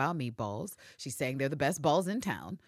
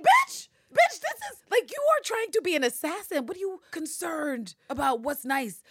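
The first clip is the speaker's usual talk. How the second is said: much higher, louder, laughing scorn; mocking laughter; 14 semitones higher, 6 dB louder than usual. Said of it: "Constantine starts laughing like".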